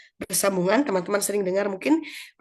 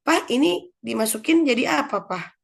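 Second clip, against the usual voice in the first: put-on curious child; 4 semitones higher, 3 dB louder than usual. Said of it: "gitu ya ke bapaknya".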